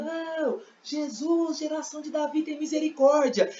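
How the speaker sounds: high, restrained cry for mercy; mock shouted plea. Blind man begging Jesus for mercy, high mock shout. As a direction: imitate crying out, pitched high but held back. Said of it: "E conforme eu vou gritando".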